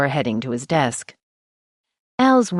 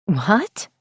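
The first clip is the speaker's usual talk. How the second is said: high, startled shriek; 5 semitones higher than usual. Acted. Editor hearing the body is held, shrieking. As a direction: jolt up in shock. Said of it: "I practically shrieked".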